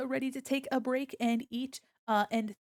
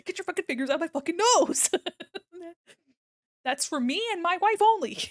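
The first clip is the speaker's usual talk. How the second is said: loud, fast shout broken by laughs; hammed-up outrage, laughing; laughing mock yell; 7 semitones higher, 6 dB louder, faster than usual. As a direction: yell in fun, then joke through laughter. Chat pokes avatar's nose.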